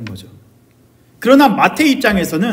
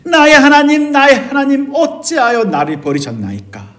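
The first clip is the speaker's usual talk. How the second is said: desperate outcry; 7 semitones higher than usual. Acted. Preacher voices Matthew's despair to God, desperate outcry. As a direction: cry out to God, then let the question drop. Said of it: "라고 절규하고 외치는 마태의 감정을".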